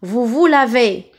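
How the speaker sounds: "lavez" ending in closed é. Shown as a demonstration. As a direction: model the final é of "lavez". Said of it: "la deuxième syllabe qui contient E". (« lavez » avec é fermé final)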